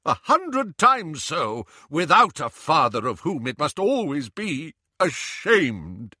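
a pained, rising plea that slows on the middle phrase; anguished Lupin. Acted. Lupin tells Harry he'd shame his child, rising despair.

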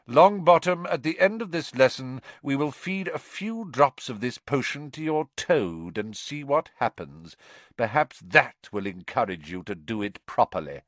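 stern teacher, starting high and loud, then settling; menacing Snape. Acted. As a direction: threaten the pupil with deliberate relish.

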